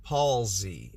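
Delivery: low, deliberate "palsy", PAWL-zee; newly learned palsy. Shown as a demonstration. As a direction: say "palsy" in two careful syllables. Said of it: "I have learned something new".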